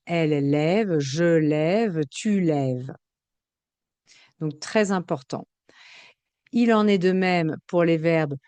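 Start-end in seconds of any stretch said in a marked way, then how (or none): 0.1-2.9 "lève" with open eh, ending silent; open È sound. Shown as a demonstration. Teacher drills silent endings, open eh in "lève". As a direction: say each "lève" as one syllable, levv with eh. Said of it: "je vais avoir le son est".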